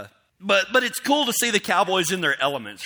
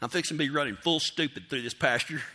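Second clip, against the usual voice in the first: muttering to himself, getting softer; hushed self-talk; 6 semitones lower, 10 dB quieter than usual. Retold or imitated. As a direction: talk yourself through the nerves under your breath. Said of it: "you're telling yourself".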